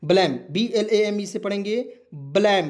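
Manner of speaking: ब्लेम said clearly as blem, letters spelled out; pronunciation demo. Shown as a demonstration. Teacher pronouncing a word for students, clear demo. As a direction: model ब्लेम carefully for the class. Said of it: "इसको भी मैं उच्चारण करके बता दे रहा हूँ".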